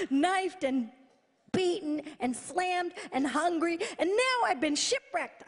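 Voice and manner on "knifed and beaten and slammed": laughing. Real, not acted. Laughing through list.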